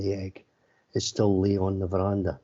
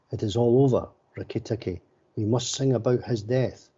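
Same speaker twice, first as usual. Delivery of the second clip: shouting; 3 semitones higher than usual. Acted. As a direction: call it out across the garden. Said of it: "Darzeen was shouting".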